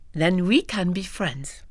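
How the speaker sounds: slow hushed offer of friendship; a slow whispered promise to a new friend. Acted. Claudine softly offers friendship.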